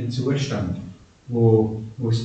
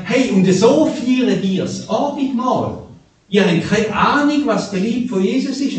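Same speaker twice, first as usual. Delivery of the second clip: raised, scolding preacher voice; Paul scolding; 6 semitones higher than usual. Retold or imitated. Paul scolds the rich Corinthians, raised and scolding. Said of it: "Und der Paulus schimpft und sagt".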